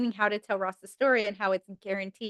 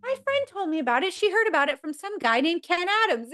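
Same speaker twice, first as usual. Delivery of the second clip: higher, quick innocent explanation; Rachel explaining; 8 semitones higher than usual. Retold or imitated. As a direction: casually give away the secret. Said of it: "she goes".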